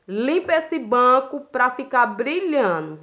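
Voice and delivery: slow, drawn-out order, mimicking the boss; imitated bossy order. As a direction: imitate a boss stretching out her command. Retold boss's cleaning order. (ordem da chefe imitada, bem arrastada)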